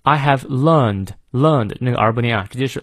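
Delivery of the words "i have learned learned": British "learned" with no r after the vowel; British pronunciation, drop the r in "learned"; British accent. Shown as a demonstration. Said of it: "元音后的R不念". (英式发音，"learned"元音后不念r)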